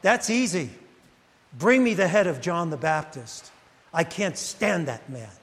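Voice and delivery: a cold, matter-of-fact Herodias with a hint of spite; a touch of a hard, spiteful mother; scheming mother. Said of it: "And she goes".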